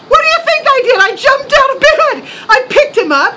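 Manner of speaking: high and loud, half laughing; worked up. Retold or imitated. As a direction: relive the adrenaline, cracking up. Son retells his heroic reaction.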